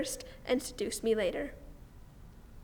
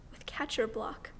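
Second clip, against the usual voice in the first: slow, near-whispered confession; hushed love confession; 6 dB quieter, slower than usual. Acted. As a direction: let the name drop to a soft hush. Tender confession of love to him.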